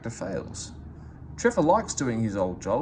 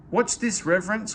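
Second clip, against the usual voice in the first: calling out; 8 semitones higher, 4 dB louder than usual. A narrator's reading. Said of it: "called Jem".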